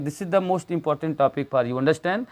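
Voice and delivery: very slow, each word weighted; slow teacher emphasis. Shown as a demonstration. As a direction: drive the point home slowly. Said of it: "याद रखिए".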